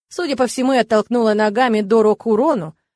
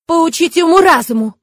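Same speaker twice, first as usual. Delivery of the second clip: stern correction; 7 semitones higher, 8 dB louder than usual. A narrator's reading. Kurona correcting her.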